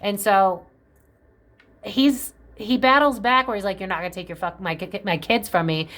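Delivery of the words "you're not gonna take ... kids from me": stuttering. Retold or imitated. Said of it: "now I'm starting to stutter".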